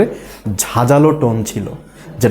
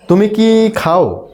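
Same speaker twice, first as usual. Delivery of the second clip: yes-no question weighted on খাও; stress on খাও; 6 semitones higher, much slower than usual. Shown as a demonstration. Teacher asking student for yes or no, stress on খাও. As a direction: draw it out slowly, leaning on খাও. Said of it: "জোর দিয়েছি খাওয়ের উপরে".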